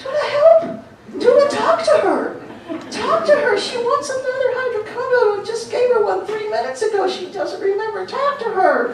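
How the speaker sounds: very high-pitched, stressed pleading. Recounting a stressed man calling her about her mother, imitating his high-pitched pleading. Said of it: "in this high-pitched voice because he was so stressed".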